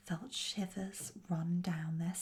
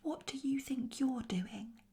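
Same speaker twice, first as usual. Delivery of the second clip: lightly voiced indignant goblin, pitched higher; gruff voice; 6 semitones higher than usual. A narrator's reading. One goblin confronts the other, mildly gruff and indignant. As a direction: challenge him with a touch of gruffness. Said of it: "said a gruff voice".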